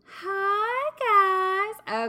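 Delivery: bright, upbeat, cheerful voice, high and loud. A podcast host greets listeners on a Friday, happy voice. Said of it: "that's my happy voice".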